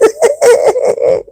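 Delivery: a sudden, high, squeaky burst of laughter in disbelief; high incredulous laugh. Real, not acted. Reading the Aga Khan's words to viewers, an incredulous high laugh. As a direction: laugh out high, half shocked, half amused.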